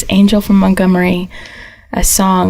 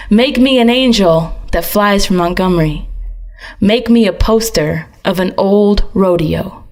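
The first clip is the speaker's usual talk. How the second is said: spoken word beat poem. Acted. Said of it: "turn a song into a spoken word beat poem".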